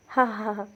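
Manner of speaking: a spoken ha ha ha, lightly acted; taunting laugh, half-hearted; villain's mild mock laugh. A narrator's reading. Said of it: "मोठमोठ्यानं हसायला लागली".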